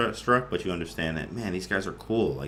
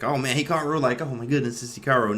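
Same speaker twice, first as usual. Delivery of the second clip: higher-pitched retold fan excitement; starstruck quote; 4 semitones higher than usual. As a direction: re-enact being starstruck by a famous player. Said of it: "at first I was like that".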